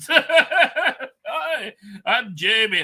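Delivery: Jamie. Acted. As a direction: put on a joking Scottish accent through amusement. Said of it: "Scottish accent".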